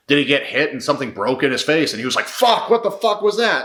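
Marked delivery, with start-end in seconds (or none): 2.3-3.6 much higher, startled yelp of disbelief; imagined shocked outburst. Retold or imitated. Fighter reacting to something breaking in his face, shocked. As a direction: play the fighter jolted by a strange hit.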